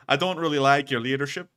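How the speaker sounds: lightly put-on Irish lilt; Irish accent. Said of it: "I'm doing an Irish accent".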